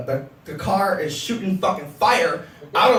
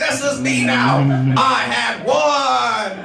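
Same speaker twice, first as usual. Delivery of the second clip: mock Bob; 5 semitones higher than usual. Mocking Bob's future self, hammed-up shout. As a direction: ham up a converted Bob. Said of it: "You're like".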